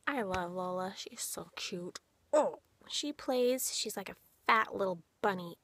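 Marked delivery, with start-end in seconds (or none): 0.1-2.0 softly whispered gushing. Real, not acted. Owner whispering her love for the bunny. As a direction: breathe it out in a whisper. Gushing quietly over rabbit.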